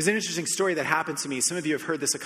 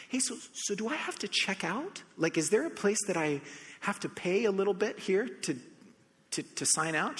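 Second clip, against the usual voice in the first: eager question; 5 semitones higher than usual. Retold or imitated. Retold question to the nurse.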